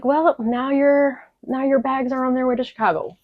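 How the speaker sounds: a lightly mocked cheerful clerk; imitating airline agent. Agent telling a crying traveller her bags are gone, high singsong. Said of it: "she was like".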